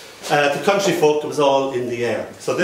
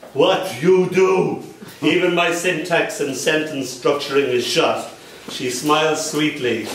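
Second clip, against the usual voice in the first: measured, deliberate poetry reading; spoken-word poem, unhurried; poem recital; slower than usual. Acted. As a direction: recite it line by line, shaping each image. Reads a comic poem aloud.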